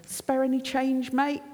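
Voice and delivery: a hint of a beggar's patter. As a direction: casually ask for change, like a beggar. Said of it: "The beggar".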